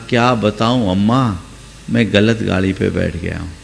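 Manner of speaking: low, soft lament. A narrator's reading. Young man quietly confessing to the old woman he boarded the wrong train. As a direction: mutter the confession under his breath. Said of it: "उसने कहा".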